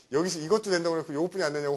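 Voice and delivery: mildly annoyed, quick student protest; retold angry complaint. Student protesting to the teacher about test coverage, mock annoyance. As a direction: imitate a put-out student, a little fast. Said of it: "화를 내더라고요".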